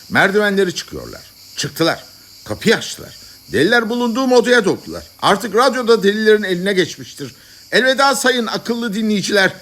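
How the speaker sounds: increasingly high-pitched live report, building to alarm; urgent radio bulletin. Acted. Radio announcer to listeners as the madmen storm in, increasingly frantic. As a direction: report the break-in with mounting urgency.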